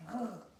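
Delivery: R as a sustained throat sound; consonant sound. Shown as a demonstration. Teacher sounding R while writing it, R drawn out. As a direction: hold R as a sound, not a letter name. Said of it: "Je prononce les sons".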